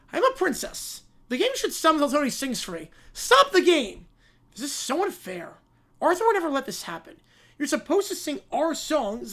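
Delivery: put-on tattling spoiled kid whine; bratty child. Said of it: "the Brat Pack".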